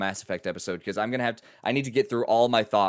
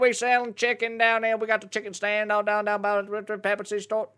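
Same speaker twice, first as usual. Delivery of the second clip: hick voice; 12 semitones higher, 8 dB louder than usual. Retold or imitated. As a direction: voice a rowdy country worker. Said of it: "My guy was definitely turning into an auctioneer".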